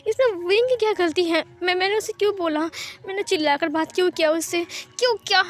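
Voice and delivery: high, fast, distraught questions with stammers; berating himself in a frantic rush; anguished self-reproach. Acted. Wang Ji, alone at night, blames himself in high distraught tones. Lover regrets scolding Wing, alone.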